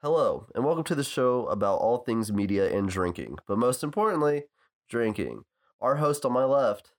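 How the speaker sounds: upbeat host intro; show intro read. Acted. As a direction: open the show like a radio host.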